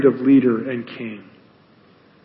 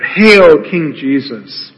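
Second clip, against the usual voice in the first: mock hail; much slower than usual. Soldiers jeering Jesus, retold slowly: fading mock hail. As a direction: let the mockery sink in slowly. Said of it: "They cry out".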